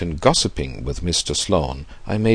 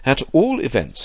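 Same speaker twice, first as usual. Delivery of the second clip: put-on high-pitched old gentleman; old man; 7 semitones higher, 4 dB louder than usual. A narrator's reading. Old man pressing his young friend, high-pitched. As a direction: carry on in an old man's raised pitch. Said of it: "he continued".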